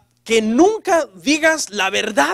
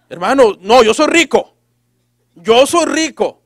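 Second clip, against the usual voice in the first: emphatic denial; 6 dB louder than usual. Acted. A believer in debt answers a brother, in insistent denial. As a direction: insist on it like a stubborn believer, drawing out the last one.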